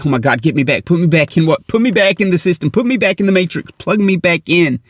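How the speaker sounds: hammed-up desperate plea; mock panic. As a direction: act out a man begging to be plugged back in. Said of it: "we can't breathe".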